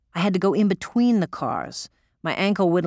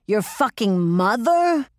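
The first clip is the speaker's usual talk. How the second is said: mild roar; 4 semitones higher, slower than usual. Retold or imitated. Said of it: "she roared".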